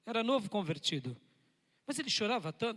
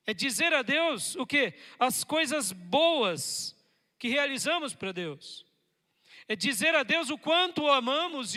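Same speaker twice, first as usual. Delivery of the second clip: loud, driving preacher's voice; fiery preaching; 6 semitones higher, 7 dB louder than usual. Acted. Pastor exhorting the church about praise, loud and fervent. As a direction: preach it out to the congregation.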